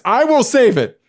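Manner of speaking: mock-dramatic declaration; all-caps emphasis. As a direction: read it as if in capitals. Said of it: "And you said all caps".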